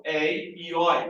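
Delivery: "ei e oi" said slowly, each open vowel clear; slow listing of diphthongs. Shown as a demonstration. Teacher demonstrating open diphthongs to students. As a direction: sound out "ei e oi" one by one.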